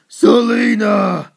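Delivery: long drawn-out shout of her name; calling out. Acted. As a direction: call out to her across the distance, slow and loud. Batman calls out to Selina.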